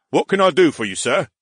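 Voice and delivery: lightly voiced eager soldier; a hint of a keen guard; soldier at attention.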